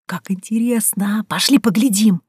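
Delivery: lightly acted eager friend; eager curiosity. A narrator's reading. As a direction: coax a friend to come and look. Friend eager to explore the passage.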